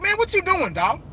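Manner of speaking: asking Jerry in disbelief; incredulous questioning. Retold or imitated. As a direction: fan grilling Jerry. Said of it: "how I would ask Jerry".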